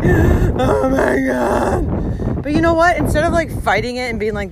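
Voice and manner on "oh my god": shocked. Retold or imitated. Caught in hailstorm.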